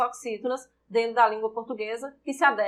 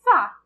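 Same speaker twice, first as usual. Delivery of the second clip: "Fá" said alone, pitched up and louder; stressed syllable alone; 4 semitones higher, 6 dB louder than usual. Shown as a demonstration. Teacher isolating the stressed syllable for students, emphatic. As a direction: pull out "Fá" and hit it hard. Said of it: "Qual é a sílaba tônica de fácil?".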